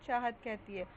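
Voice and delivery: ordinary delivery, nothing marked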